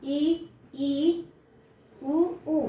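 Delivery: "ई" then "उ" each said twice with lips barely open; teacher repeats "ई, ई, उ, उ" for pupils to copy; vowel demo. Shown as a demonstration. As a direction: show the closed vowels slowly. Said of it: "जैसे ई देखो".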